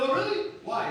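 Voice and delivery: a high, loud "Oh, really?" in fake amazement; sarcastic disbelief at a friend's marriage plan; mock surprise. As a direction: play it wide-eyed and incredulous.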